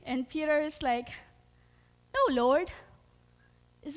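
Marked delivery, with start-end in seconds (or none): 2.1-2.7 loud, higher-pitched acted objection; emphatic protest. Preacher voices Peter refusing Jesus's prediction, loud protest. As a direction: protest out loud as a shocked disciple.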